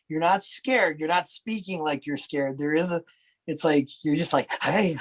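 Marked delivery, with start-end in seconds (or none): 4.6-5.0 imitated nervous "hey" with a laugh; jittery greeting breaking into a small laugh; frenetic nervousness. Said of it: "there's this sort of freneticness".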